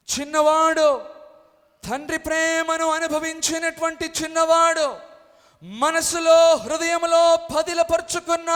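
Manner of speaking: high, loud preaching cadence; full-force preaching. Acted. Pastor preaching to believers about the son's faith. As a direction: drive each phrase home.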